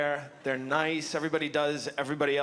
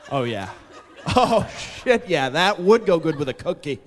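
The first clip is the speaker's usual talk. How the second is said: lightly voiced dawning realization, louder as it goes; mesmerized viewer; 7 dB louder than usual. Imagined viewer watching a milk commercial, mock-amazed. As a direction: act struck by a revelation.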